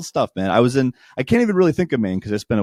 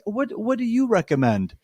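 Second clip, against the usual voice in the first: higher, timid mock question; imitating dad; 12 semitones higher, 3 dB quieter than usual. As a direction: play the dad asking shyly. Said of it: "he's like".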